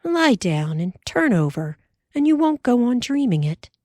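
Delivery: sleepy, drowsy wife; mild yawn through the words. Acted. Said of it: "Ma yawned again".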